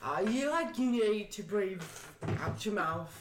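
put-on lightly slurred drunk yoga explainer; drunk Praline. Player voices her drunk character explaining yoga, lightly drunk. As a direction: explain it like you've had too many. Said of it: "drunk Praline explaining yoga".

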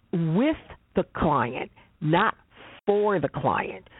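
"with" and "for" leaned on, set off by pauses; slow down to contrast "with" against "for"; deliberate weight on "with", then a drawn-out "for"; stress on with and for. Real, not acted.

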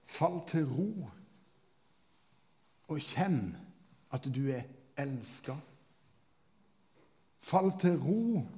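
slow, hushed, falling words to the congregation; meditative preaching. Acted. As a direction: let each phrase settle.

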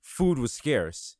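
low, slow, dropping trailer voice; ominous game narrator. Retold or imitated. Mocking the game's cutscene narration with a low ominous voice. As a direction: read it like a grim game intro, deep and slow. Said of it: "they were like".

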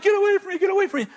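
high, urgent mock yell; retold yelling back. Girl yells back at the man chasing her, high urgent yelling. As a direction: push him off with a high-pitched cry. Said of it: "She's yelling something back".

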